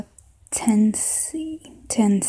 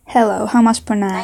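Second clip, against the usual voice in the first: put-on southern accent; 3 dB louder than usual. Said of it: "maybe a southern accent".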